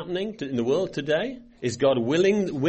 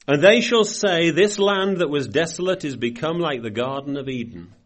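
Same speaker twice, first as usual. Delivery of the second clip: louder, measured Bible read; scripture reading; 3 dB louder than usual. Acted. Preacher reading verse thirty-five aloud, measured read. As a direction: read the prophecy with weight.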